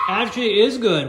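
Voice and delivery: laughing. Real, not acted. Tasting, surprised and laughing.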